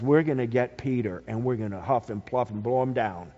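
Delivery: low, soft, fast scheming threat; the wind as the big bad wolf threatening Peter. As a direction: growl it like the wolf at the pigs' door. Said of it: "like the big bad wolf".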